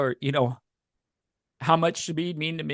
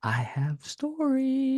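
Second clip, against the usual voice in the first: choked up; 10 semitones higher, 4 dB quieter, much slower than usual. Real, not acted. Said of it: "he's already starting to cry".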